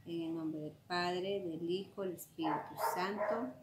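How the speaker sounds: soft, low sign of the cross; recited prayer. Real, not acted. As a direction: murmur a familiar prayer quietly.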